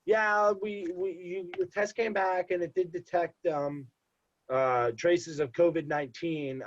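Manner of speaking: high, sing-song imitation of the caller; mock nurse voice. Med Express caller voiced in story.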